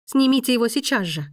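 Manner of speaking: now, right now, no patience left; impatient demand. Acted. Woman ordering the maestro to unclasp it, sharp demand.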